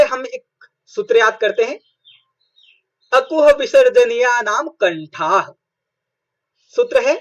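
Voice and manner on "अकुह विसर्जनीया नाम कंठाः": measured, deliberate chanting of the rule; slow Sanskrit sutra recitation. Shown as a demonstration. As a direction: recite it slowly like a mantra. Teacher recites a grammar sutra.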